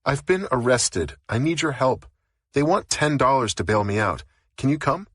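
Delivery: high, pleading and frantic; mild panic, begging for help; arrested woman begging her friend to bail her out, frantic. Acted. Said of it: "She sounded frantic".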